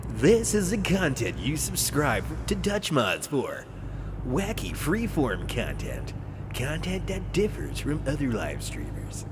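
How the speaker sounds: slow radio promo read; measured, put-on radio announcer delivery. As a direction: announce it slowly like a station promo. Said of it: "I'm trained in using my radio voice".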